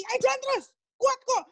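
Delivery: high-pitched acted encouragement; urging on. God urges a tired believer to keep walking, encouraging. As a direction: egg them on, pitched well up.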